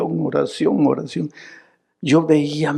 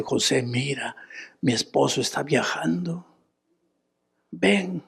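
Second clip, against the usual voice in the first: softer, hushed invitation rising on ven; lightly voiced seduction; 2 semitones higher, 6 dB quieter than usual. Potifar's wife tempting José, a touch of soft hush. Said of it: "viene donde José y le dice".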